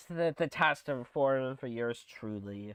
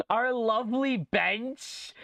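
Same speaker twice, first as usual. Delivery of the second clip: delighted squeal; 7 semitones higher, much slower than usual. Real, not acted. Delighted at the cafe bench.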